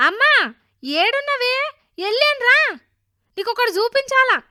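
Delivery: put-on loud, high, eager boy calling his mother; shouting. A narrator's reading. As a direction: holler through the house for Amma. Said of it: "అనుకుంటూ అరుస్తాడు".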